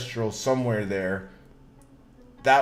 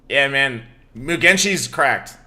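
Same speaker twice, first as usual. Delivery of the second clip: hyped; 3 semitones higher, 8 dB louder, slower than usual. Real, not acted. Hyped about the deck.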